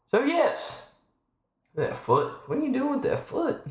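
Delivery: high playful cooing. Real, not acted. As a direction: tease the kitten in a squeaky voice. Cooing at kitten's foot.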